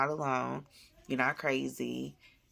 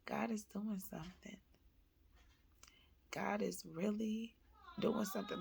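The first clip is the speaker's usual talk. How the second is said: soft, higher, hushed wonder; quiet, high-pitched awe; awed realization; 6 semitones higher, 8 dB quieter than usual. Retold or imitated. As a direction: let it out softly, moved. Moved realization, retold.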